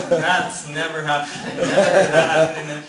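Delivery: laughing through the words, slow. Real, not acted. Laughing at the proposal.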